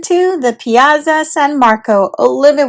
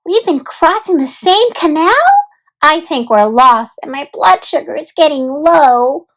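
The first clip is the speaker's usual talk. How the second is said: put-on higher little girl, dramatic worry; Olivia fretting; 5 semitones higher than usual. Olivia complaining she is lost, fretful girl. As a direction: play lost and peckish.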